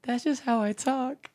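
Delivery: high, slow mock rapper voice; imitating rapper. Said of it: "we used to be like".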